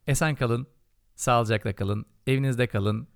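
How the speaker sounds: formal broadcaster farewell; TRT announcer sign-off. Pretend. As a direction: read it like a state TV announcer. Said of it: "Bu T R T anonslarını yapmazsam olmuyor".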